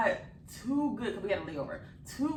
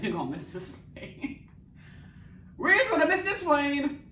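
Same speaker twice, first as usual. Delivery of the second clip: panicked; 9 semitones higher, 7 dB louder than usual. Retold or imitated. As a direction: wail it in mock panic. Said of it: "We're like".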